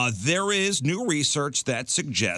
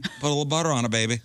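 Paula Deen; 3 semitones higher, much faster than usual. Retold or imitated. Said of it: "Paula Deen comes to mind".

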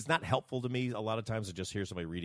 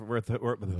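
stumbling over the words; tongue-tied. Real, not acted. Colleague fumbling a sentence about the casting director, tongue-tied. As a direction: trip on the phrase and restart. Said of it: "oh, I can't talk".

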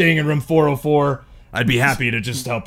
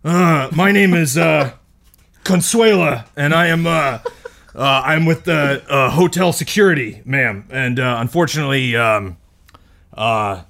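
hotel security officer. Acted. Player voices hotel security Consuela.

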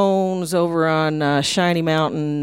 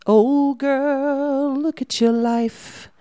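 high, very slow fond voice of a mother; mama's voice; 7 semitones higher, much slower than usual. Retold or imitated. Her late mama telling Julie she's a lot like her. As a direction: speak as her late mama would, marvelling. Voicing mama risen from the dead.

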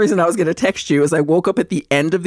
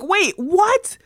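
baffled double take; 10 semitones higher than usual. Retold or imitated. Acts out baffled viewer reaction.

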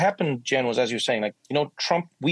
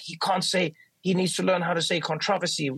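higher-pitched mock complainer; mock complaint; 5 semitones higher than usual. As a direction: imitate griping viewers, higher. Voicing outraged viewers' hate mail.

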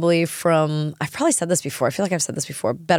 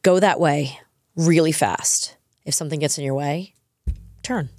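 Booger's advice. Retold or imitated. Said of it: "Booger turns to him and goes".

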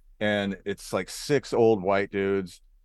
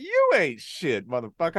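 imitated Black American accent; 8 semitones higher than usual. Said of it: "I went black on him".

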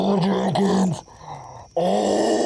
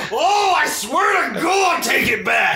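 slow furious shout; 7 semitones higher than usual. Acted. Owens swears at Jenkins to retract the insult, slow furious shout. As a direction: roar the oath slowly. Furious demand to take back.

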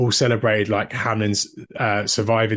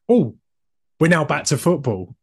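suddenly higher, bright mock excitement; perked-up commentator; 5 semitones higher than usual. Imitating the commentator snapping out of his gloom, higher and excited. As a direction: burst back to life like the game just started.

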